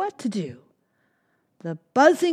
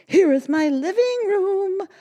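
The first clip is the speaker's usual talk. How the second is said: gentle bear person; 13 semitones higher, 7 dB louder than usual. Acted. Bear shows home.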